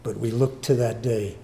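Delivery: measured prayer voice to God; humble congregational prayer; closing prayer. Real, not acted. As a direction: pray it humbly to the Father.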